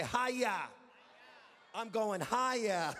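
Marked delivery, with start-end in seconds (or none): 0.0-0.7 "Haya" called out for the crowd; "Haya" said as hi-yah; echo the word. Shown as a demonstration. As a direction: lead them in saying "Haya". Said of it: "Someone say".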